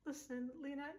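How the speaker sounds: yelling neighbor. Acted. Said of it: "he was yelling".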